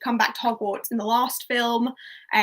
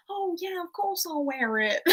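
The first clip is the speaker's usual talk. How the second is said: mock-reluctant boy, pitched up and softer; imitating Ron; 7 semitones higher, 3 dB quieter than usual. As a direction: put on a high, weakly whimpering yes. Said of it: "he's like".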